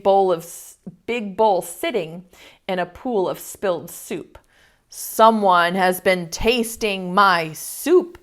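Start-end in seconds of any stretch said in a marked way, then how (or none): 4.9-8.2 slow, a hint of a papa bear roar; lightly voiced papa bear, slow and heavy; mild roar. Reader voicing Papa Bear finding his soup, slow mild roar. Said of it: "he roared".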